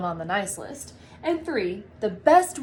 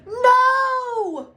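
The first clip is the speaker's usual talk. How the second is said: much higher, louder cry of disbelief; shocked no; 13 semitones higher, 8 dB louder than usual. Acted. Buddy crying out in shock at the news, much higher and louder. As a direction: gasp it out in horror.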